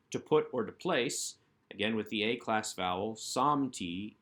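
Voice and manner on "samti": "samti", weight on the opening "sam"; first-syllable stress. Shown as a demonstration. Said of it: "accent on the first syllable".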